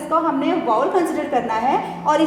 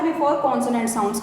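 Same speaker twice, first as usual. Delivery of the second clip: very slow, each word spelled out; slow it right down for students to write; slow dictation; 3 semitones lower, 3 dB quieter, much slower than usual. Shown as a demonstration. Teacher dictating the rule very slowly. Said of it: "ए का word हमने कहाँ पर use करना होता है?".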